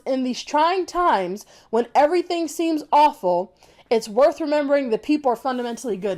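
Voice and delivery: "trying times" read very slowly, "everything" leaned on; mocking slow quote; slow pointed reading. Shown as a demonstration. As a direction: recite the line slowly to mock it. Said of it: "All I read was".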